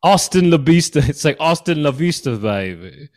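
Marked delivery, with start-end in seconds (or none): 0.0-1.0 high, loud mock-English spy; swinging British catchphrase; comic English-accented impersonation; Austin Powers. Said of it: "Austin Powers". 1.4-3.1 mock-English spy catchphrase; comic British impersonation; Austin Powers. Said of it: "Austin Powers".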